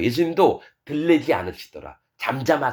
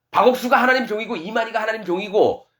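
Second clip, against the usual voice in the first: high-pitched insistent listing; raised, emphatic mock conviction; imitating blind believers; 7 semitones higher than usual. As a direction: mimic followers vouching for their leaders, each name pitched up. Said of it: "이렇게 믿는 거예요".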